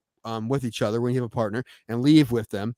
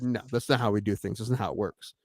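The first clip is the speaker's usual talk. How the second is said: softer, firmly retelling his own refusal; 3 semitones lower, 6 dB quieter than usual. Retold or imitated. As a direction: lay down the rule, quietly firm. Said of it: "But I'm like".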